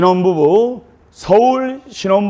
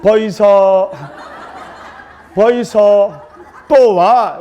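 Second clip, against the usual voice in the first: Gyeongsang calling; much slower than usual. Retold or imitated. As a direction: holler it plainly, Gyeongsang style. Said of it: "경상도 신랑에게".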